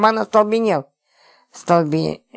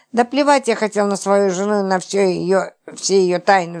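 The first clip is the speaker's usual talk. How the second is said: usual speaking voice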